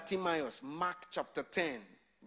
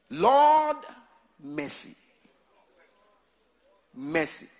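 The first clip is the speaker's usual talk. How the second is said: prayer cry; 10 dB louder, slower than usual. Real, not acted. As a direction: cry out to God.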